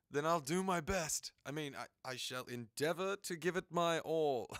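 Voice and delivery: rally like an eager student; eager, pumped-up. Acted. Voicing an eager Brooke.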